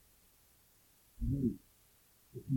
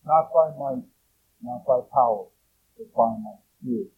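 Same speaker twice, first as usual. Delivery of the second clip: louder, forceful proclaiming of the verse; raised voice; 6 dB louder than usual. Real, not acted. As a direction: declaim it out loud to the congregation. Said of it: "Lower my voice".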